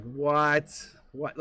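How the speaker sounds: retold disbelief, repeated; jaw-dropped shock. Friend stunned by the reading, mock shock. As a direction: act out a friend's astonishment. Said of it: "Literally jaw fucking dropped".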